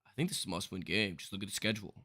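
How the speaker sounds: mock panicked sports fan; overreacting fan voice. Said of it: "it takes one guy to be like".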